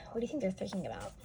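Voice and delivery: quick unvoiced whisper. Real, not acted. Teacher whispering a question to the children, hushed.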